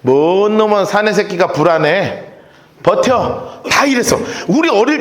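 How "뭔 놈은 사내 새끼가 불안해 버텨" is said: gruff elder. Retold or imitated. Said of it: "어떻게 했는 줄 알아요".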